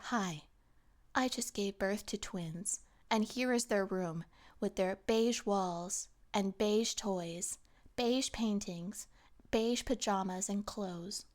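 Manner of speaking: slow, subdued beige-mom voice; mock beige mom. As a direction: present the nursery slowly and listlessly. Mock beige mom showing nursery.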